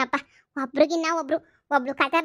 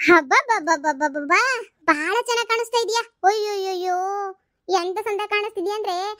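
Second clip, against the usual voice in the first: sarcastic praise; 3 semitones higher than usual. Acted. Mother mocks daughter's makeup.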